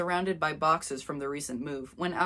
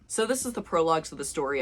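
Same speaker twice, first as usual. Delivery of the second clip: ordinary talk, nothing marked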